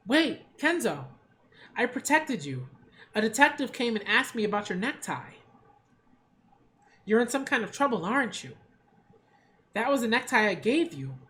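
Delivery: a touch of desperation in the appeal; pleading Eva. Acted. Eva appeals to Kenzo to stay, lightly urgent. Reads Eva's dialogue.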